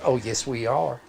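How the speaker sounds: imitated Southern accent reply. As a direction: answer as a mock Southern local. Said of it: "hard in that Southern accent".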